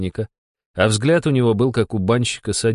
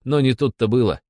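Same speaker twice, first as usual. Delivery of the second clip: usual speaking voice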